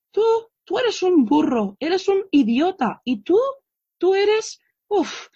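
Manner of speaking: mock scolding yell, pitched high; retold mother's insults. Mother insulting her child, mock high yell. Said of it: "gritándoles, insultándolos".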